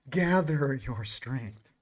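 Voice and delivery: slow, low delivery for emphasis; slow, hushed repeat. Real, not acted. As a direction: stretch each word slowly and quietly. Same card line repeated for effect.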